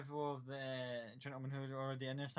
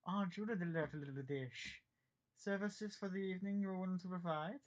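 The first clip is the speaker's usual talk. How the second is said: sleazy host; 5 semitones higher than usual. Acted. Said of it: "Sitting there going".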